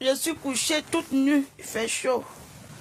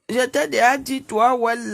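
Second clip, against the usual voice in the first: louder, sharp rebuke of a viewer; angry scolding; 5 dB louder than usual. Real, not acted. Kicking a viewer called Well off her live, louder and angry. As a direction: call him out hard by name.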